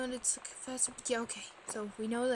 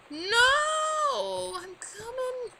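higher, louder mock-panicked cry; 11 semitones higher, 7 dB louder, much slower than usual. Player rushing to save the sister in game, loud cry.

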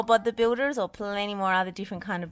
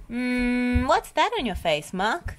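high-pitched, amused question; giggly teasing; 7 semitones higher, 4 dB louder than usual. A narrator's reading. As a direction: tease a friend about their face. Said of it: "giggled Dizzy".

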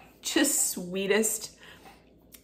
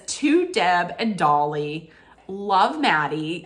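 slow read-aloud; slower than usual. Shown as a demonstration. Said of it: "it says".

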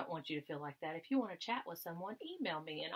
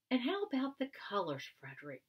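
anxious question; 7 semitones higher, 5 dB louder than usual. Acted. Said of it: "they asked anxiously".

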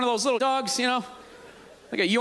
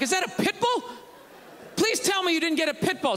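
freaked-out plea; 5 semitones higher than usual. Retold or imitated. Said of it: "I start freaking out".

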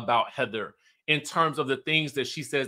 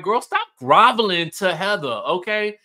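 louder, higher mock scolding, girl to girl; sassy scolding; 3 semitones higher, 6 dB louder than usual. Speaker to Angie, telling her off in a raised voice. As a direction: snap at her to stop groveling, half-playful. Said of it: "I'm like".

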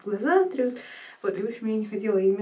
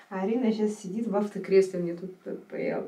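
ordinary talk, nothing marked

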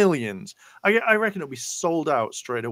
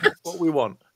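laughing; 3 semitones higher than usual. Real, not acted. Repeating the wish for a crossover while laughing. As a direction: back down, laughing through it.

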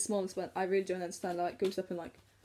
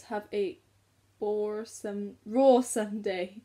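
slightly Irish-accented card reading, loud drawn-out middle; lightly Irish lilt with a loud slow roar; 6 dB louder, much slower than usual. Real, not acted. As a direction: read it with a hint of Irish, stretching the roar. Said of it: "Why is it saying that in an Irish accent".

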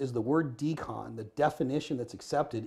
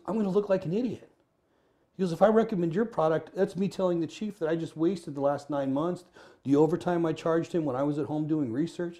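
pitched up high, anxious and defensive; a nervous man afraid of looking foolish; worried protest; 5 semitones higher, 4 dB louder than usual. Retold or imitated. Worried official quoted.

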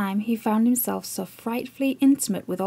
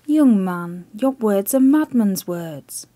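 stern admiral; 6 dB louder, slower than usual. Acted. Admiral dismissing Chips.

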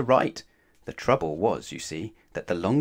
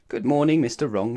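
smiling greeting; 4 dB louder than usual. Acted. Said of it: "she smiled".

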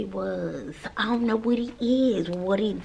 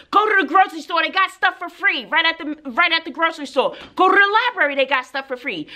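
higher-pitched, insistent teacher comeback; exasperated scolding; 6 semitones higher, faster than usual. Retold or imitated. Teacher answers magazine excuse, exasperated and insistent. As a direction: fire back at an excuse, retold with exasperation.

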